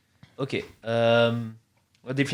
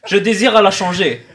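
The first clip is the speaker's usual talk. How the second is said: laughing; 5 semitones higher, 9 dB louder than usual. Acted. Mock complaint about production team.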